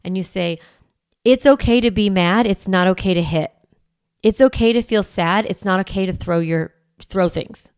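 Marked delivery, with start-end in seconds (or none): 1.2-7.7 calm firm no. Shown as a demonstration. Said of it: "I call this the hard no".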